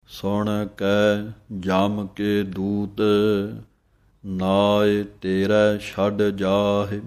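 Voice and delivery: measured, drawn-out recitation of gurbani; slow devotional recitation; slow scripture recitation. Shown as a demonstration. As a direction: recite each word slowly and clearly. Recites scripture line slowly.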